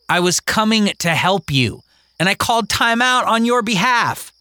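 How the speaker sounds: put-on high, challenging girl; girl's voice. Mary asking the other kids, high and challenging. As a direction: put him on trial before the kids.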